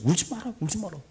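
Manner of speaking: Jesus comforting. Retold or imitated. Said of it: "말씀하잖아요".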